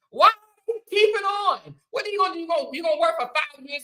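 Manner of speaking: high, loud exasperated demand. Real, not acted. Ranting at critics, exasperated and loud. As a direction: throw the question at them in disbelief.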